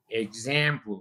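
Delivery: example with the open English vowel. Shown as a demonstration. Teacher demonstrating the vowel in example. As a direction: say example the American way. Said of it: "el sonido de eh".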